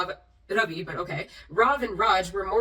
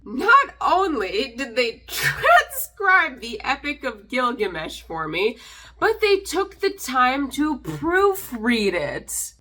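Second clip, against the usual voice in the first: slow, laughing through the words, louder; laughing disbelief; 3 dB louder, slower than usual. Real, not acted. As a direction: chuckle in sarcastic awe. Mock gratitude to a troll.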